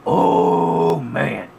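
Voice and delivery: put-on loud, high, slow Scottish-Irish accent greeting; hammy Scottish-Irish accent greeting; bad Scottish-Irish accent. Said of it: "a little bit of a bad, uh, Scottish-Irish accent".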